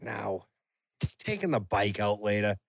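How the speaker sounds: a hint of his dad planning a bike ride; Kenny Bonacore impression. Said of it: "I do an even better Kenny Bonacore".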